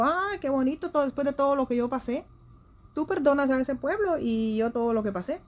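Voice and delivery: lightly acted sarcastic grievance; angry Jonah. Preacher voices Jonah grumbling to God about pardoning Nineveh, mildly angry. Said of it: "Jonás se enojó y le dijo".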